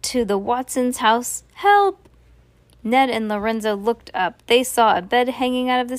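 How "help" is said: high, loud call; cry for help. A narrator's reading. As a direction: shout for rescue from inside a house. Distant cry for help in story.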